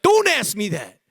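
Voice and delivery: a touch of mock irritation, snapping back; half-hearted snap at the question; understated hostile retort. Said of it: "I almost even sometimes get hostile".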